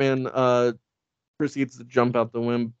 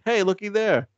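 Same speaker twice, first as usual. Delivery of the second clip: high-pitched gawker calling out; folksy audience member; 7 semitones higher than usual. Retold or imitated. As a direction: call out like a delighted yokel onlooker. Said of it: "some guy in the audience is like".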